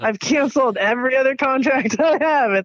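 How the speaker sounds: giggling through the words, voice lifted; laughing. Retold or imitated. Telling the podcast host she cancelled every contract, laughing. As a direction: laugh as you admit it.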